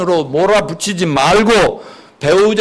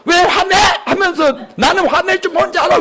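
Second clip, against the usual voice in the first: provoking retort; 8 semitones higher than usual. Retold or imitated. Pastor acting a spouse who stirs up the anger. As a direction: needle your spouse into a fight. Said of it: "격동이 일어나서 싸움이".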